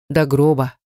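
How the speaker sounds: lightly dreamy, barely whispered. A narrator's reading. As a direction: sigh «До гроба» like a lovesick girl. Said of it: "мечтательно прошептала Далила".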